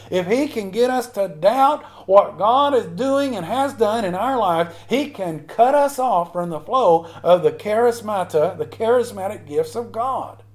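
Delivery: slow, emphatic pulpit delivery; insistent, deliberate preaching; fervent preaching. Real, not acted. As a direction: stretch the phrases with preacher's conviction. Preaches at full force.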